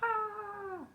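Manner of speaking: long high "ah"; small pretend shriek; drawn-out, high cry. A narrator's reading. Pretend danger after spotting a shark.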